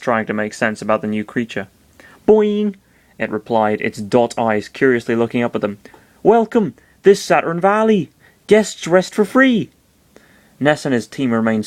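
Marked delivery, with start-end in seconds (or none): 2.3-2.7 high, bouncy little creature squeak; high-pitched cute creature voice; cartoon creature. Cartoon creature's catchphrase in story. 6.2-9.7 high-pitched creature greeting; high, stretched-out creature voice; odd little creature. Acted.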